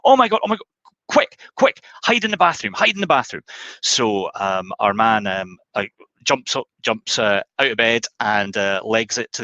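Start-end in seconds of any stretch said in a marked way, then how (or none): 0.0-3.4 high, loud, frantic panic; caught-out lover panicking at the door; panicked wife. Acted. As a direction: shriek it out in a fluster, much higher. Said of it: "female half ... says".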